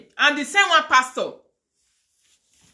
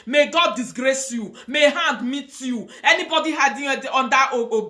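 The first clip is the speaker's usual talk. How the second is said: rhythmic preaching curse, rising to a shout; curse prayer. Acted. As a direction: call down curses like a fiery preacher. Curses the scammer in prayer style.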